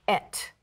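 Et with a short e; Hebrew pronunciation. Shown as a demonstration. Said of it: "It is the Hebrew word pronounced".

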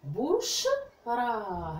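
بشرى drawn out very slowly, sound by sound; stretched out. Shown as a demonstration. Teacher shows the children the sounds of the word, very slow. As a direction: pull بشرى apart slowly so the sounds show. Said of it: "هذه الكلمة فيها صوتين فقط".

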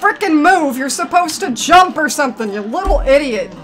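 angry yelling. Real, not acted. Player berates a character who won't move, angry yelling. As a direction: berate it at full voice, easing slightly by the end. Yells at unresponsive game character.

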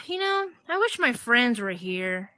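sigh, then a slow, wistful wish; understated mock sadness with a sigh; mildly sad. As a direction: act a little forlorn, drawing it out. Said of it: "she just gets sad and says".

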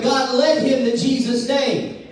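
emphatic pulpit delivery; preaching. Real, not acted. Preacher on the young man calling out to God, preaching. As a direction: press the point like a preacher.

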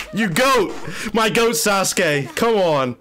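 high, excited fan cheer; adoring praise. Real, not acted. Fan cheering on Sasuke as the goat, excitedly adoring.

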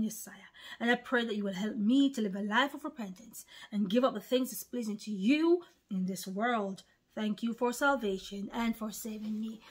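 soft, earnest prayer read for repeating; salvation prayer. Acted. Preacher leading viewers in the sinner's prayer, softly. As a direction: lead the listener through the prayer gently.

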